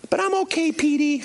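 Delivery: high, mock-tearful voice; imitated tearful girl. Crying girl reassuring the preacher, mock tearful. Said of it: "And she's crying".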